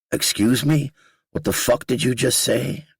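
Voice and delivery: high, stunned disbelief; shocked outburst. Retold or imitated. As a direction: blurt it out in shock. Shocked at being told paralysis.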